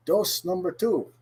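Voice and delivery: "dose" said like the English word dose, slow; pronounced dose. Shown as a demonstration. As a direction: stretch "dose number two" with an English o. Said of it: "not dos number dos".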